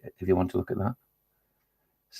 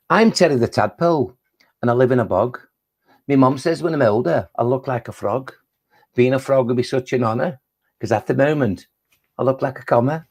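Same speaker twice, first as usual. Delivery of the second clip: put-on Scouse-accented rhyme recital; Liverpudlian tadpole. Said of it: "It's the best attempt I can do".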